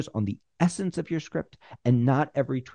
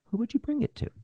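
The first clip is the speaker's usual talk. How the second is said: "Who would you bring it to?" asked much higher with a rise on "you"; high, light question; 12 semitones higher, faster than usual. Shown as a demonstration. Pitcher putting the question to the executive, high and rising. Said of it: "So you're gonna go".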